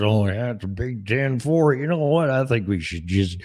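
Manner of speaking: lightly voiced CB-radio trucker; a hint of a trucker on the radio; half-hearted trucker impression; mock trucker. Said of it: "And truck drivers".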